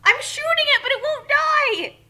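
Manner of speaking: loud, high yelling at the game; frustrated gamer shout. Real, not acted. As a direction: yell at the monster that won't die. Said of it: "gaming frustration".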